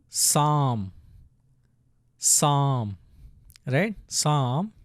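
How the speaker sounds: "sam" drawn out as one syllable; syllable demo. Shown as a demonstration. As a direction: model "sam" slowly for learners, with pauses. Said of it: "Let's pronounce it".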